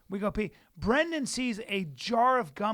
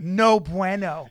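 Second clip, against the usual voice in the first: slow, loud mock Spanish "No bueno"; 3 semitones lower, 7 dB louder, much slower than usual. The speaker imitating his annoyed co-host, loud mock Spanish. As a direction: drawl "No bueno" like a hammed-up Spanish speaker. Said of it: "He becomes Spanish".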